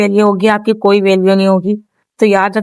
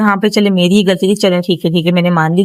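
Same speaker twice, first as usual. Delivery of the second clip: quick, resigned mock apology, dropping lower; giving in; 3 semitones lower, faster than usual. Shown as a demonstration. Wife giving in to husband, resigned quick mock apology. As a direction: hurry through a weary give-up sorry. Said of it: "آپ نے یہ بھی بول دیا".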